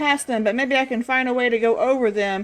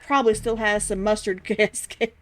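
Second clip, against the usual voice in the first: real laugh swallowing the last words; breaking into laughter. Real, not acted. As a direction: start the line in character, then crack up. Cracks up reading the line.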